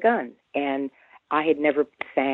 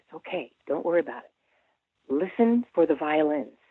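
soft reassuring; 5 dB quieter than usual. Retold or imitated. Bandleader calming her.

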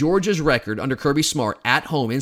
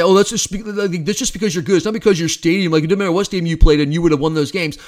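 rival fan; 2 semitones higher, 4 dB louder than usual. Retold or imitated. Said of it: "I know what a rival fan would say".

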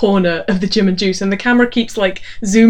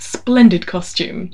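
posh quoting; 3 semitones lower, slower than usual. Retold or imitated. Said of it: "and I quote".

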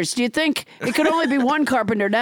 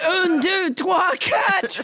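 higher, emphatic mock French counting; French Trump; 5 semitones higher, slower than usual. French Trump counts after the accent is teased, French accent. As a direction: count out boldly in comic French. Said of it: "your extremely realistic accent".

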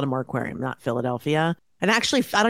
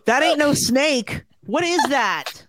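horrified disbelief; 5 semitones higher, slower than usual. Real, not acted. Reacting to centipede photo.

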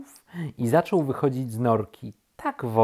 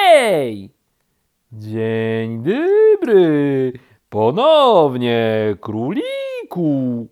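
loud, extremely drawn-out greeting; very slow turtle; 2 semitones higher, 10 dB louder, much slower than usual. A narrator's reading. Woken turtle greets rabbit, extremely slowly. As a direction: stretch every syllable like a turtle. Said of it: "powiedziało zwierzę bardzo wolno".

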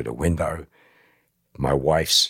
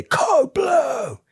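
much higher shouted hospital alarm; alarm call; 4 dB louder than usual. Retold or imitated. Nurse calling the emergency over the ward, high and loud. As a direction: call it down the corridor.

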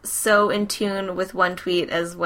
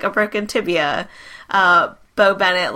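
ordinary talk, nothing marked

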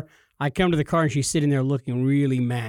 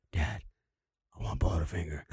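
put-on sulky kid; 12 semitones lower, 10 dB quieter than usual. Son voiced in a story.

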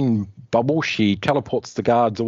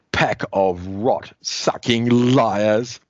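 Grimbor villain; 2 semitones higher, much slower than usual. Acted. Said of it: "Grimbor continues to beat her".

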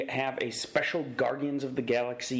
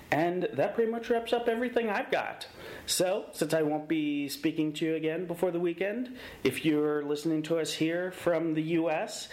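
1950s radio announcer; high, fast, hammy DJ sign-off; old-timey DJ voice; 5 semitones higher than usual. Acted. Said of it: "weird old-timey D J voice".

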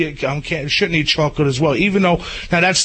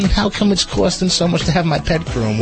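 put-on little old lady voice; 2 semitones higher than usual. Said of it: "I love his little old lady voice".

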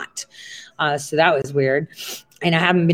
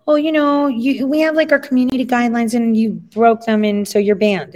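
mocking Twitch; 5 semitones higher than usual. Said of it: "Times sent me saying".

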